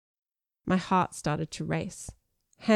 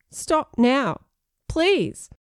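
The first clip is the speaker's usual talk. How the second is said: amused pleading; 7 semitones higher, 4 dB louder, much slower than usual. Acted. Begging, trying not to laugh.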